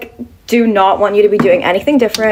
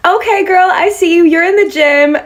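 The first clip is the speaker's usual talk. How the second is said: high-pitched imitation of a cheering girl; hyping compliment; 9 semitones higher, 3 dB louder than usual. American girl hyping a stranger after the gym, imitated high voice. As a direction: hype her up in a high voice. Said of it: "this American girl stopped me and she was like".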